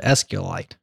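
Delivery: S Q L ite as letters plus "ite"; creator's pronunciation. Shown as a demonstration. Repeating how the creator says it, S Q L ite like meteorite. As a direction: run S Q L into an -ite ending. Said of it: "that's how he says it".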